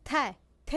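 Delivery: plain dental t in "ت", not emphatic; ordinary Tajik T. Shown as a demonstration. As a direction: say "ت" thinly, as in everyday Tajik. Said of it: "ت عادی تاجیکی است".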